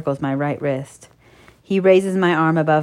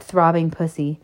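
plain reading voice

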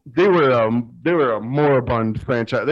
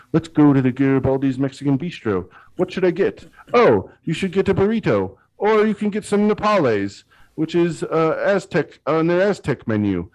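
higher voiced customer; 4 semitones higher than usual. Acting out a customer ordering.

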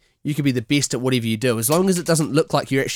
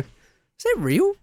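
drawn out, much higher, slow astonished question; amazed disbelief; much slower than usual. Retold or imitated. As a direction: stretch it out in high amazement.

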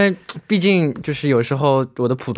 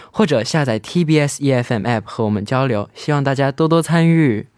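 播音腔. Acted. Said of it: "有没有很主播， 有没有很播音腔？".

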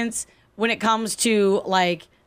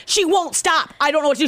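higher, helpless wail without real tears; retold sobbing plea; 5 semitones higher than usual. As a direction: retell a desperate phone call, pitched up. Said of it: "I was on the phone sobbing".

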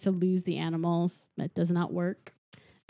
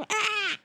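mock bird squawk; 14 semitones higher, 4 dB quieter than usual. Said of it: "yells in his face".

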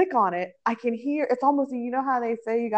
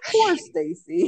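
mock pity; 4 semitones higher, slower than usual. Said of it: "the vibrato in her voice".

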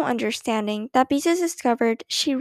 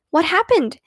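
high, louder pleading question; begging; 6 semitones higher, 5 dB louder than usual. A narrator's reading. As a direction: beg to be told, eagerly. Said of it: "begged Beezus".

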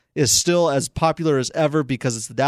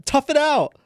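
mock tough talk; 12 semitones higher than usual. Teasing a friend about sleep.

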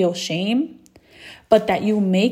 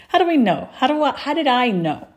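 higher, amused through a laugh; 5 semitones higher than usual. Real, not acted. Host catching herself mid-question, laughing. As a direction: laugh while asking yourself.

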